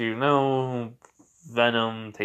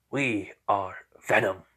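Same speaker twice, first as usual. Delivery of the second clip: slow monster declaration, a little lower; Venom; 3 semitones lower than usual. Acted. Creature introducing itself to the boy, slow monster voice. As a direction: announce yourself slowly, weighting each word. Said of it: "it just sounds like Venom's voice".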